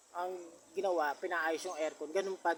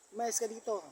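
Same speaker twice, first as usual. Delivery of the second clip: raised, higher angry command to get out; angry order; 7 semitones higher, 5 dB louder than usual. Retold or imitated. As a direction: chase him out angrily. (galit na pagpapalayas)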